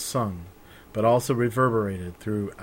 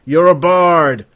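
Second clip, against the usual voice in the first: much louder, slow exclamation; astonished shout; 7 semitones higher, 14 dB louder, slower than usual. Acted. Raven realizing the stranger is a bard, loud and slow. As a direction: burst out in disbelief.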